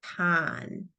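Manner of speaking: con said alone, softly, with a short o; isolated syllable. Shown as a demonstration. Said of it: "a closed syllable".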